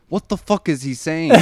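annoyed. Retold or imitated. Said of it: "I'm like".

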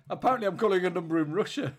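high, loud, laughing disbelief; amused disbelief. Real, not acted. Caller to co-host on misdialling Russia, loud laughing disbelief. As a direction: break into laughter at the absurd mistake. Laughing at dialling a wrong country.

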